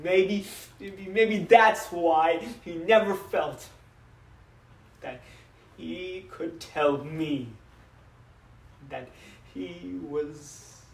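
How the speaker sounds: slow, halting confession; understated grief with long pauses; faltering regret. Acted. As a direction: struggle to get each phrase out. Father falters in regret over son.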